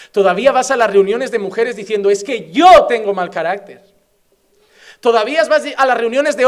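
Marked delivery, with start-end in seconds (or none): 2.1-3.8 mocking excuse. Mocking excuses of church members.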